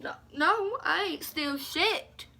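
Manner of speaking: high-pitched outraged denial, slowing at the end; indignant denial. Retold or imitated. Accused of stealing money, high indignant denial. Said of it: "I was like".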